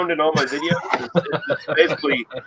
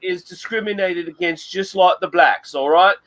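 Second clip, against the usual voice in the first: Red Beard impression; 2 semitones higher than usual. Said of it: "I was doing a Red Beard impression there".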